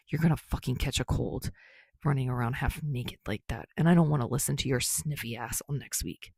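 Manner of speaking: a hint of a low, grumbling young man; lightly voiced, scolding a friend; gruff Bakugo.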